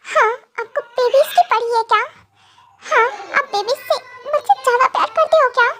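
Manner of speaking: high, hurt wifely complaint; jealous questioning. Acted. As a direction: press him with wounded, high-pitched questions. Wife jealously questions husband's love. (शिकायत भरी ऊँची आवाज़ में)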